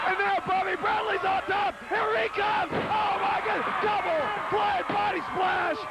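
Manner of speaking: rising excited play-by-play over a big move; excited commentator call. Real, not acted. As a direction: call the splash with mounting excitement.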